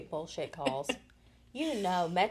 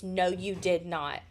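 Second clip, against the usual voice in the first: stunned slow denial; 2 semitones lower, slower than usual. Retold or imitated. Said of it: "That's all I could say was".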